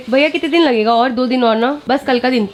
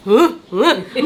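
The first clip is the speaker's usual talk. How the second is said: mock moan; much slower than usual. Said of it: "पायल कहती".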